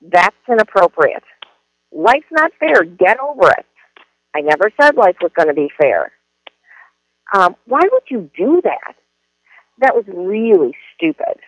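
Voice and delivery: judgmental, scolding authority; mildly acted win-lose reprimand; parent voice. Shown as a demonstration. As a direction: put them down like a punitive parent. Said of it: "When the teacher uses that voice".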